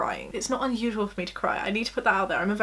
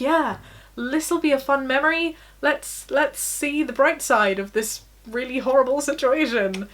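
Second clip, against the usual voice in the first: mock perky optimism, slightly raised; relentlessly happy Poppy; 4 semitones higher than usual. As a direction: put on a mildly chirpy look-on-the-bright-side act. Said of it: "annoying because she's just so happy all the time".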